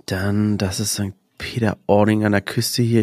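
whispered to herself; whispering. Real, not acted. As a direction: murmur it while reading a map. Liest leise von der Karte. (flüsternd)

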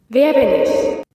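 lightly voiced robotic "Wer bin ich?"; a touch of synthetic voice; toneless computer voice. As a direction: ask it like a machine, without feeling. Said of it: "nur eine seltsame, tonlose Stimme".

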